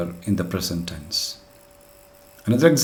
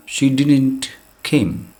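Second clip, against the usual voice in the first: slow wrong example; 4 semitones higher, much slower than usual. Shown as a demonstration. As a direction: spell out "She didn't came" slowly, word by word. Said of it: "It is a, a double past".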